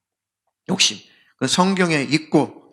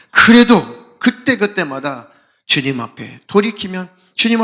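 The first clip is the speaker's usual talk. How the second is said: mock lament; 2 semitones higher, 5 dB louder than usual. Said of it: "그렇게 슬퍼해요".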